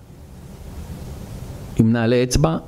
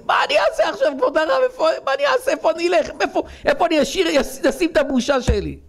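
much higher, anguished crying wail; wailing lament; 10 semitones higher, faster than usual. Acted. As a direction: cry out in despair, pleading with the rabbi. Father wails to the rabbi. (יללה גבוהה ונואשת של אב מבויש)

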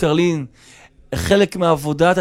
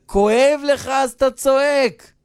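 high-pitched exclamation; emphatic point; 7 semitones higher than usual. Retold or imitated. Host throws guest's own reason back, emphatic. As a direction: lift the voice to drive it home.

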